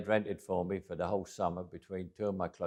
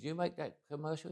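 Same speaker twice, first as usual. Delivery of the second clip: higher, softer incredulous question; retold surprise; 7 semitones higher, 8 dB quieter than usual. Telling a man he met about the commercial, surprised. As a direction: ask it with mock disbelief, rising in pitch.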